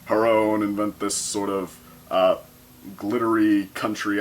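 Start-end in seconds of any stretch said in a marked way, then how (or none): none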